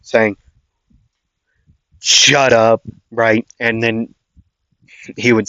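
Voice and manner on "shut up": half-hearted yell to silence her; mild mock yell. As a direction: snap at her without really yelling. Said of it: "Bakugo would yell at her".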